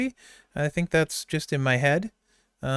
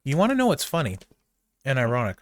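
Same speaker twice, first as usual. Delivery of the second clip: mouth full; faster than usual. Real, not acted. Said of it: "Sorry, I'm chewing".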